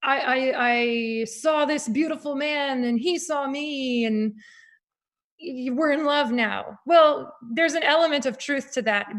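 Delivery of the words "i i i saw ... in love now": mock-dreamy romantic confession; lovestruck girl. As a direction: gush a little, slowly, as if newly in love. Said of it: "I just thought it was".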